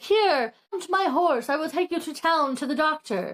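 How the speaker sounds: a hint of the dashing hero offering his horse; gallant knight. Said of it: "and he's like".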